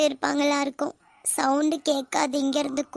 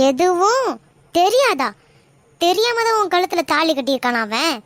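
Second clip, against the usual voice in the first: raised, incredulous retort; angry disbelief; 3 semitones higher, 4 dB louder than usual. Acted. Mother scolding her daughter in angry disbelief. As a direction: throw her words back at her.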